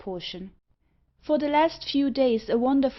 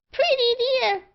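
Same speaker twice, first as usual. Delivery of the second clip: much higher piercing bird squawk; screeching parrot; 6 dB louder than usual. Acted. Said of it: "screamed Meg".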